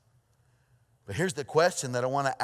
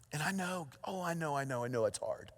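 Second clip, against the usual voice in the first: gentle reassurance; 6 dB quieter than usual. Real, not acted. Comforting the grieving congregation.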